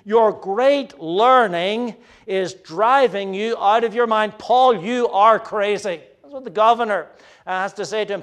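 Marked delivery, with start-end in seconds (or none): 0.0-6.0 raised voice reading the governor's outburst; governor's loud outburst at Paul, read with a raised voice. Acted. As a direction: call Paul mad, sharp and raised. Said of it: "Festus said in a loud voice".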